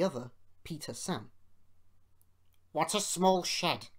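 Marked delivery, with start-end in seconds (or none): 2.7-3.9 louder, higher haughty complaint; put-out engine finding fault; grumbling. A narrator's reading. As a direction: grumble with disdain. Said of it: "grumbled Sir Handel".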